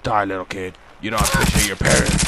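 hammed-up horror villain; villain game voice. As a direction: scold the victim then strike, with mock menace. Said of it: "still talking like this".

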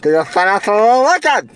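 fast, slurred through a mouth guard. Real, not acted. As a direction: mumble it quickly around a mouth guard. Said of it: "with this mouth guard in my mouth".

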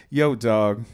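lightly imitated low voice; a rapper. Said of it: "I'm not gonna make this a racist voice".

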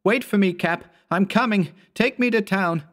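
loud, high call after the buggy; yelling. A narrator's reading. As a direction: shout to stop him leaving. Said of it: "I yelled".

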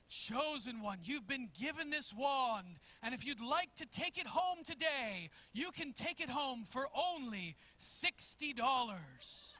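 lightly voiced ceremonial wizard; slow, stretched phrases, presenting a wand with mock grandeur; in-character wizard. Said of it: "they do this whole thing in character".

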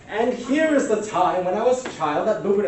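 loud, high-pitched oversharing act; mock oversharer. Speaker mimics someone oversharing for likes, loud mock announcement. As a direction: blurt it out like an eager oversharer.

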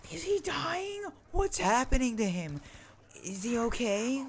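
put-on high, loud frantic kids' voices; panicked kids. Other kids panic over trapped hand, high frantic squeals. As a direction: squeal it like scared children. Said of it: "they're just like".

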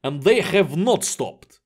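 crewman reporting trouble, lightly in character; lightly voiced Vladimir. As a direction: give the account in a slightly put-on character voice. Plays crewman reporting the collision.

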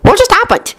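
high-pitched astonished question; amazed. A narrator's reading. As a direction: blurt it out in amazement. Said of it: "Dean gasped in amazement".

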